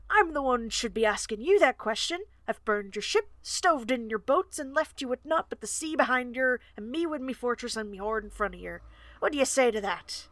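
a hint of an old pirate, taunting; lightly voiced corsair tyrant. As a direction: throw the question back like a smug pirate. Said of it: "slipped back into the old corsair language".

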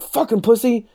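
put-on high, scornful old-timer jab; mocking old barfly. Old cat taunting the writer for refusing, high mock voice. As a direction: sneer it like a rowdy old man.

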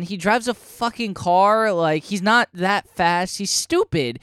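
high-pitched, drawn-out exasperation; real fed-up fan outrage; indignant rant. Real, not acted. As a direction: complain in pained, rising disbelief. Ranting about disliked character redesigns.

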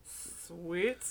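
soft, low sweet word; deep sweet voice. Shown as a demonstration. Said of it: "just go deep and this sweet".

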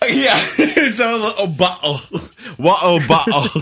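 laughing, badly faked British; hammed-up fake British; bad British accent. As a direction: mangle it in a silly British accent, giggling. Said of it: "That is the worst British impression".

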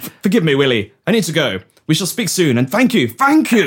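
hurried gratitude. Acted. Hurries off the call, elated.

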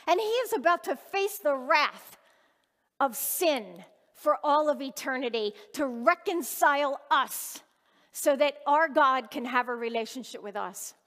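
rising preacher's fervor; fervent preaching. Acted. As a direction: drive the point home to the congregation. Preaches about Jesus' sacrifice.

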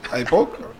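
mock Spanish-accented threat from the needle guy. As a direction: say it again in a hammed-up Spanish accent. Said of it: "that's my Spanish accent".

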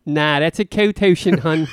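a hint of a Philly accent. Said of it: "Philly accent".

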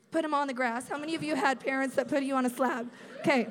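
loud, full-voiced preaching; fired-up shout. Real, not acted. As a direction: drive the point home loudly.

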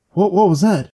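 imitating an alarmed mother; startled mom. Mom hearing a scream while driving, startled.

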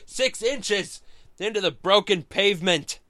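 booming comic narrator voice; dramatic reading. Shown as a demonstration. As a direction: read it like an overwrought comic.

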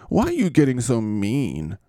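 mock petulant whine; Zach Wilson. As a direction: protest like a wounded child, hammed up. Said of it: "you petulant little fart head".

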